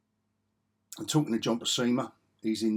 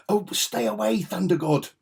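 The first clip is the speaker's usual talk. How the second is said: high, loud theatrical warning; hammy comic-book villain; 6 semitones higher, 5 dB louder than usual. Acted. Fan acting out a foe warning the Thunder God, hammy. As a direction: declaim it like old superhero dialogue. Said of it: "makes you want to talk like that".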